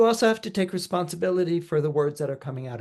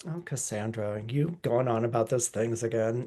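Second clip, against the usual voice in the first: dismissive townsfolk; 5 semitones lower, 4 dB quieter than usual. Retold or imitated. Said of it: "And they're like".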